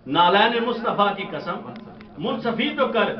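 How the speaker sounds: measured recital of verse for a gathering; poem recitation. Acted. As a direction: recite the couplet, lingering on key words. Recites couplets to audience.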